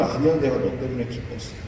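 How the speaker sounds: tender God. Acted. God gently contradicts Moses.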